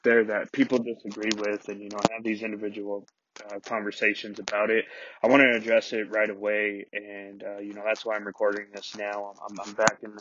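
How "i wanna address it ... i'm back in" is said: muffled closet recording sound; boxed-in, dead closet acoustics; inside a closet. Real, not acted. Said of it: "I'm back recording in the closet".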